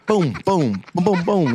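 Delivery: punchy mock impact noises; imitated bouncing booms. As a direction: bounce each boom like a sound effect. Imitates cars bouncing off trampoline.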